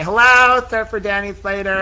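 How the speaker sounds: a high, loud hello across the street; sing-song call. Acted. Woman calling out to her fiance across the road. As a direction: hail him from afar.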